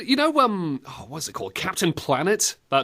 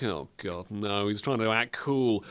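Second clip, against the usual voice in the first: much softer, lower dismayed groan; groaning kids; 8 semitones lower, 9 dB quieter than usual. Retold or imitated. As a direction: mutter it like an embarrassed kid. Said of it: "kids are like".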